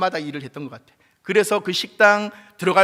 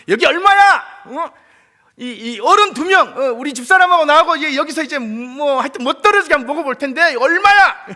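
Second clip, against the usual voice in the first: put-on loud, high, swaggering old man; proud loud demand; 10 semitones higher, 11 dB louder than usual. Grandpa loudly demands the buffet price. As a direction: boast it like a big spender. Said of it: "종업원들이 막 소리를 막 지르니까".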